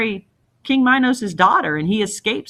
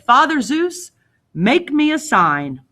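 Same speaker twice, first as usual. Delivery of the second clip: solemn invocation; 6 semitones higher than usual. Acted. King invokes Zeus from cliff.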